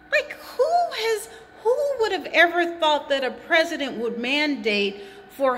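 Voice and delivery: incredulous laugh through words; laughing in disbelief. Real, not acted.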